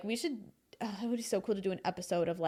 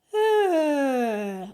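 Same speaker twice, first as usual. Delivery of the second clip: loud high sighed sound with the tongue stuck out; tongue-out sound demo; 6 semitones higher, 8 dB louder than usual. Shown as a demonstration. Coach demos a tongue-out stretch sound. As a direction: let out a sigh with the tongue out. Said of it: "larynx lower while you have your tongue out".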